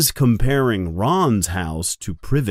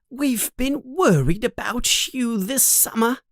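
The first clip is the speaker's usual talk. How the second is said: a mother's concern; 12 semitones higher than usual. Acted. Mother telling Harry she worried all summer, tender and high. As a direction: fuss over him gently. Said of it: "she says".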